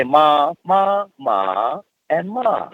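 "ma" repeated, each on a different pitch tone; tone demonstration. Shown as a demonstration. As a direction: show "ma" as a tonal word, pitch moving up or down. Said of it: "pitch up, pitch down".

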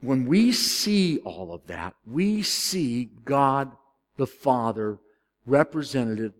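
slow, weighty preaching; slow sermon emphasis. Acted. Preacher driving home his point to the church, slow. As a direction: draw out each phrase like a closing point.

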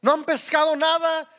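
calling loudly across the water; a loud hail from the shore to the fishermen. Retold or imitated. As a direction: shout it out to the boat from the shore. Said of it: "y les grita".

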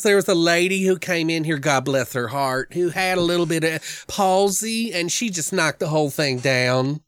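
put-on high, drawn-out Georgia accent of an old clerk; mock Georgia drawl. Retelling the old gas station clerk in a high Georgia drawl. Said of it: "he's like".

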